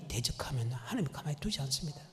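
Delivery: hushed warning whisper. Acted. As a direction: drop to an ominous whisper.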